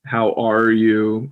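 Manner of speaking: "How are you?" drawn out slowly; slow practice phrase; slow demo. Shown as a demonstration. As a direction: stretch each word of "How are you?". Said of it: "if we do, like".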